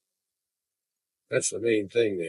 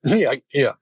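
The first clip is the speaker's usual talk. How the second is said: imitating Nyuk nyuk; 4 semitones higher, 4 dB louder than usual. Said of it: "he would go like this".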